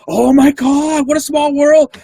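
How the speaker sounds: high, slow, drawn-out astonishment; amazed lady. Retold or imitated. Lady hearing her husband knows Scott, high slow amazement. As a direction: stretch it out high in wonder.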